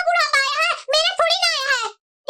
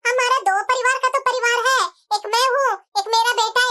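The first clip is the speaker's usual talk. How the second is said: a hint of a lower, scolding mother-in-law voice; lightly voiced mother-in-law; 3 semitones lower than usual.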